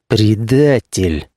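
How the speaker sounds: slow, spat-out accusation; hissed through teeth. Acted. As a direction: grind the word out slowly. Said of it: "процедила".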